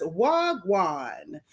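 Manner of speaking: put-on slow, drawn-out Jamaican accent; lazily imitated Jamaican accent. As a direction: stretch it out in a mock Jamaican accent. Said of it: "with your Jamaican accent".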